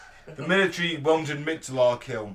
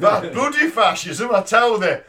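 broad Yorkshire-style northern, louder and slower, laughing; mock northern accent; 7 semitones higher, 8 dB louder than usual. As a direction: hosts riffing on Alan Moore in a hammed-up northern accent. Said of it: "he had a northern accent".

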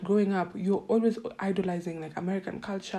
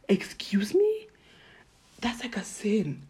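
whispered, scandalised disbelief; shocked whisper; 2 semitones higher, slower than usual. Real, not acted. Hearing friends shower with just hands, whispering in horror. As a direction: hush it like a confession of sin. Shocked reaction to hand washing.

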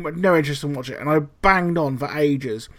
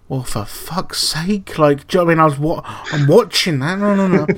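mock annoyed mum; 2 semitones higher than usual. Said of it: "And she'll go".

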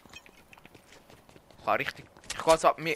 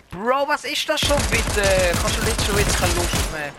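exasperated rant; 7 semitones higher, 9 dB louder than usual. Real, not acted. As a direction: complain loudly and drag it out. Genervt vom Mitspieler. (genervt und laut)

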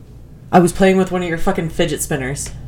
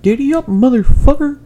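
redneck dad voice; 8 semitones higher, 4 dB louder than usual. Retold or imitated. Imitating camo-wearing dad.

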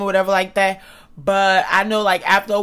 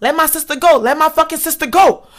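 higher, insistent demand at only slightly raised volume; half-voiced holler to release someone; mild mock scream; 4 semitones higher, 3 dB louder than usual. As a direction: retell your own scream without fully screaming. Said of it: "So I'm screaming like".

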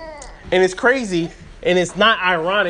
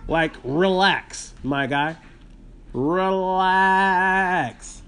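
calming relax; much slower than usual. Shown as a demonstration. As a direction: stretch out "relax, my guy" gently to calm her. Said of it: "tells the coworker to relax".

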